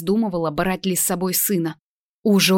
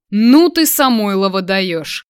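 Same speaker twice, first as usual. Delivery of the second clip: stunned; 6 dB louder, slower than usual. A narrator's reading. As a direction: blurt it out in shock. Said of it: "ошеломлённо произнёс тот".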